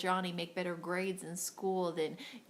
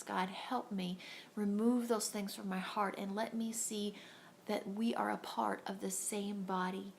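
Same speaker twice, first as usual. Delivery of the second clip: prayer. Acted. Leads a prayer.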